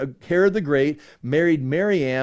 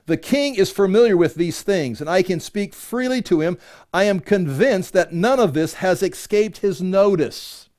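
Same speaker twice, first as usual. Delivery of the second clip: higher-pitched, emphatic reading aloud; scripture reading; 4 semitones higher than usual. Acted. Paul answering Festus about the king, emphatic scripture reading. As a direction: declare it with firm emphasis. Reads Paul's reply aloud.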